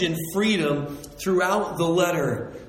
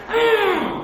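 high, loud yell through gnashing teeth; a sinner raging at God; mock furious yell; 5 dB louder than usual. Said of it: "The gnashing of teeth is like".

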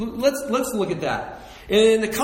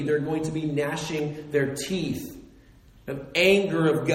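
usual speaking voice

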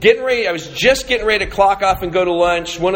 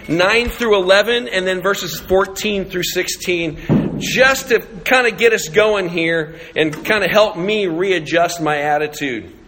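usual speaking voice

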